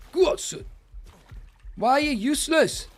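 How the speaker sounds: high, loud exasperated yell; shouting in high-pitched frustration. Real, not acted. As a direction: urge it on loudly, then berate it. Exasperated yelling at his game mount.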